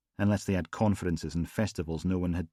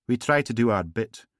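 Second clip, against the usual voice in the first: higher, louder smooth charm; silky gangster; 4 semitones higher, 5 dB louder than usual. Acted. Gangster charming Logan after the funeral, silky. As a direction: purr the polite menace.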